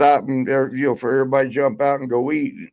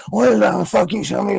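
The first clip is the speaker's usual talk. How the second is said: pitched-up imitation of a furious woman yelling; mock angry yell; 6 semitones higher than usual. Wife on the bus screaming at the wrestler, mock yell. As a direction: throw out a hammed-up cussing scream. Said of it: "she started screaming and cussing".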